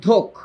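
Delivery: ধোক as one closed syllable, "dhok"; syllable-by-syllable pronunciation. Shown as a demonstration. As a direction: sound out ধোক on its own for students. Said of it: "এটার উচ্চারণ এইভাবে লিখতে হবে".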